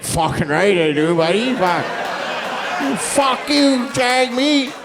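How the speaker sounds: rowdy guy snapping back at the screen; mock angry guy. Angry poster replies to the politician, mock yell. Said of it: "This guy's like".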